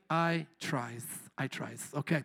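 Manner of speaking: low, soft mock Latino accent; badly faked Latino accent, dropped down low. Shown as a demonstration. Preacher being fair to everybody, bad Latino accent. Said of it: "my bad Latino accent".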